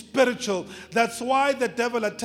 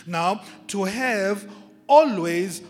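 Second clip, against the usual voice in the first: loud emphatic repeat; 9 dB louder, slower than usual. Acted. Preacher repeats verse for emphasis.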